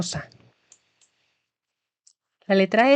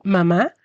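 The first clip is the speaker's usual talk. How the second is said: "Mamá" with the force on the final "má"; stress on last syllable; 2 semitones lower than usual. Shown as a demonstration. Teacher showing where the stress falls. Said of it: "El acento sobre la última A".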